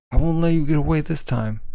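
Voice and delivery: a fighter's mild battle cry; determined shout. Acted.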